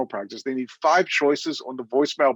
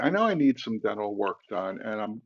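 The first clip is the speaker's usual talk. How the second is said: nervous patient; 6 semitones lower, 6 dB quieter than usual. Pretend. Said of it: "nervous patient".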